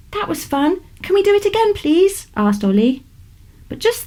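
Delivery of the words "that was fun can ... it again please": put-on a thrilled child pleading for more; excited boy. Excited boy begs to repeat.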